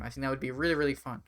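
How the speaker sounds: words between sips of water; while sipping a drink. Real, not acted. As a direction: talk around a mouthful of water. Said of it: "sorry, I'm drinking a lot of water".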